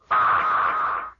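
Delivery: short loud gasped shout; shocked yelp. Retold or imitated. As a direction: yelp in horror. Morton reacts to finger.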